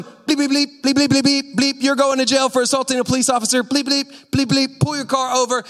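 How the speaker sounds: high-pitched rant with spoken bleeps; angry cursing officer. Retold or imitated. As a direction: rant like an enraged cop, bleeping curses. Reenacts cursing officer making arrest.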